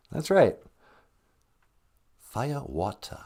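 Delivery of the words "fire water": put-on mild English accent. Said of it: "I like how you say that".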